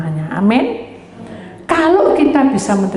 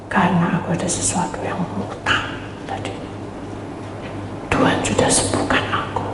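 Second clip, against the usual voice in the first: faint weary voice; 2 semitones lower, 6 dB quieter than usual. Retold or imitated. Voicing the brother.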